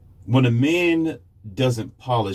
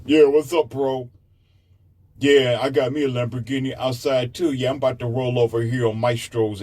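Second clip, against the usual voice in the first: boss babe; 3 semitones higher than usual. Retold or imitated. Businesswoman bragging to a buddy, mild brash swagger. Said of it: "she's giving you a fist".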